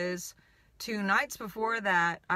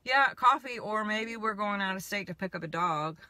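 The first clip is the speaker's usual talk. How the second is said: teasing. Retold or imitated. Teasing her friend about a secret dog trip, playfully. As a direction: toss it off like a coy hint. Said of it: "teasing her".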